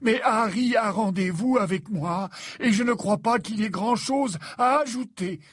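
patient headmaster, mildly annoyed; somewhat irritated. A narrator's reading. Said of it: "d'un ton quelque peu irrité".

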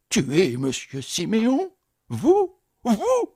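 "Vous" jeté très aigu; cri d'effroi incrédule; horrifié. Acted. Concierge horrifié. (le concierge horrifié à l'idée du meurtre, cri aigu)

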